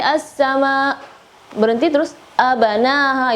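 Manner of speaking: as-sama cut off before a banaha; wrong pause. Shown as a demonstration. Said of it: "Jangan sampai".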